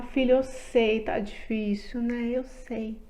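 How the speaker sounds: put-on soft, gentle words to a crying child; calm the little one down, softly; soothing mother. (mãe consolando o filho, com voz suave)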